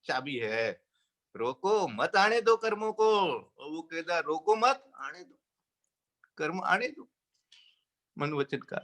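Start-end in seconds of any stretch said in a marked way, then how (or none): 1.3-3.4 "रोको" alone, then "मत आने दो" joined; pause after रोको. Shown as a demonstration. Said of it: "वही कोमा लगा रखा है". 4.2-7.1 "रोको मत" as one phrase, then pause; pause after मत. Shown as a demonstration. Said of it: "एक कोमा ही बदलता है".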